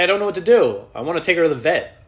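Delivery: high, loud fretting; mock panic; panicked. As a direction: fret in a panic. Panicking about sick dog.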